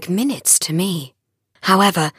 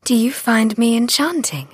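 gentle teasing; 5 semitones higher than usual. Acted. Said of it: "I said teasingly".

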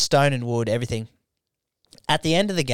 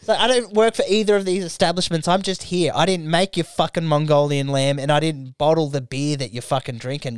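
angry retort; 3 semitones higher than usual. Acted. Acted retort to abusive customers.

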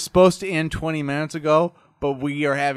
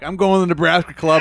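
hearty shout; 5 dB louder, faster than usual. Retold or imitated. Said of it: "would be like".

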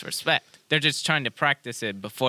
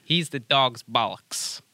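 Irish accent. Shown as a demonstration. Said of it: "how do they talk in Ireland".

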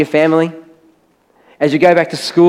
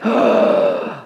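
gasp; 8 semitones lower, 3 dB quieter than usual. Retold or imitated. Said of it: "my heart went".

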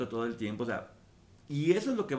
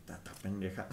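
laughing low, quiet insult; laughing dismissal; 7 semitones lower, 10 dB quieter than usual. Retold or imitated. She answers the friend's jab, laughing quietly. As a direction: brush it off with a laugh. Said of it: "o decir".

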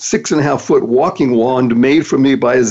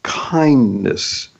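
slow, each word weighed; slow deliberate acronym read; slower than usual. Shown as a demonstration. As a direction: lay out the acronym slowly. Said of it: "Thank stands for".

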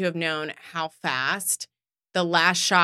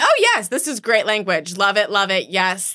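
mock delighted; 4 dB louder than usual. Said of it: "And I'm like".

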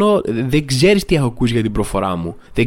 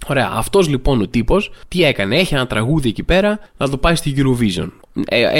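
normal talking voice

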